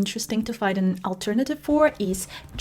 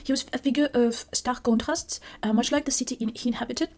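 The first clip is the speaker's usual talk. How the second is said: a hint of French accent while reading; 3 semitones higher than usual. Reading the story to viewers in a mild French accent. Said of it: "I feel like I have to read it in a French accent".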